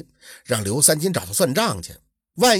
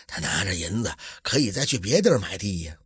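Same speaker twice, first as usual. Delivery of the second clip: low, soft, dismissive suggestion; nonchalant, understated brush-off; offhand; 8 semitones lower, 5 dB quieter than usual. A narrator's reading. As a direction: toss it off casually, pitched down. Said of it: "胡员外轻描淡写地说".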